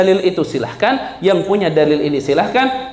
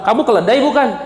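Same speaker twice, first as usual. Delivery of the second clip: rude mocking tone; 4 semitones higher than usual. Shown as a demonstration. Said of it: "sambil nada nggak sopan".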